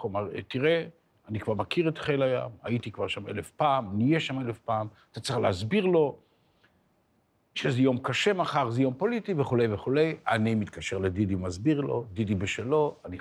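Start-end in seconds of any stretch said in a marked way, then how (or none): 0.5-10.2 mildly impatient brush-off; a touch of impatience. Retold or imitated. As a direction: retell an impatient refusal, slightly raised pitch. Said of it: "בקוצר רוח".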